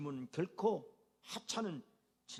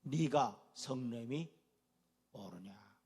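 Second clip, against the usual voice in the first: God's question; 6 semitones lower, slower than usual. Acted. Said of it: "하나님이 이렇게 질문해요".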